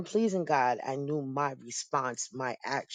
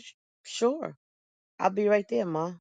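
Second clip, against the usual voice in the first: higher, bright quick agreement, a little forced; eager yes; 5 semitones higher, 4 dB louder than usual. Retold or imitated. To her mother on the phone, eager forced cheer. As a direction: jump in before she can finish asking. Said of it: "I said".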